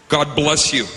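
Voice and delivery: pointed blessing. Retold or imitated. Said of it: "Yeah, I said it like that".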